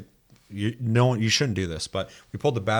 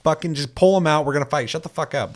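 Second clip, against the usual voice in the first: mock aggressive trainer; 6 semitones higher, 4 dB louder than usual. Trainer voiced, demanding a fight.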